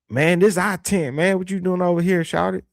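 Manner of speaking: a hint of a cocky Southern teen; Southern kid voice. A teen telling another kid off at school, lightly voiced. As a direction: lightly play a kid guarding his turf. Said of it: "that's how the kid talk".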